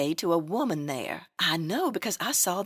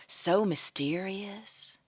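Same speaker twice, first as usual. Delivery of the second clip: unvoiced gossipy whisper, slow; hushed slow whisper; 3 semitones lower, 6 dB quieter, much slower than usual. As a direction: whisper the secret.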